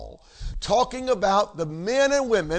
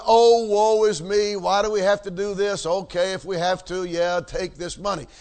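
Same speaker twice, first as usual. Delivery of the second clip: mock grudging whine. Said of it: "It was not an".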